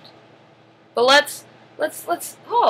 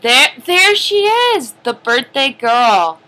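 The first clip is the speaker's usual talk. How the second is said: excited; 2 semitones higher, 6 dB louder than usual. Acted. Presents birthday girl.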